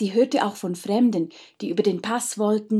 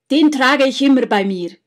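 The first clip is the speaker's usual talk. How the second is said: commanding count; 4 semitones higher, 9 dB louder than usual. Acted. Count holding up his purse.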